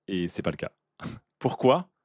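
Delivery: laughing. Real, not acted. Laughs at bad switches.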